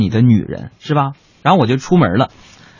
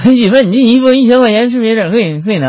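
raised high and loud, asking again; louder and clearer; 8 semitones higher than usual. Retold or imitated. Husband repeats to his wife, now high and loud. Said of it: "你把你那舌头捋直了".

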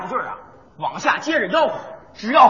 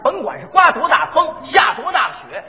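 hawking call; 2 semitones higher than usual. Acted. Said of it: "这就是北京故意".

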